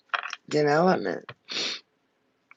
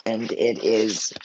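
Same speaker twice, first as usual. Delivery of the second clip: crying; 9 semitones lower, 3 dB quieter than usual. Real, not acted. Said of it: "I, I was crying".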